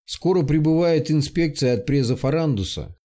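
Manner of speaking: weary voice with a slight lisp; tired slight lisp. Acted. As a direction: speak tiredly, a faint lisp on the s sounds. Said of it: "усталым, чуть шепелявым голосом".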